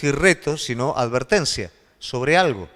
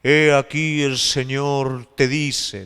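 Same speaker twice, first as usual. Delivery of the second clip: mock prophet; much slower than usual. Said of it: "profecía no quiere decir".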